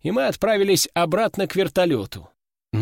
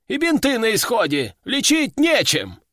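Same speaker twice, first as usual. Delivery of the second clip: cursing medic; 7 semitones higher than usual. Acted. Medic cursing at the veteran over empty supplies, frantic. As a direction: swear it out in frustration. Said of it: "выругался медик".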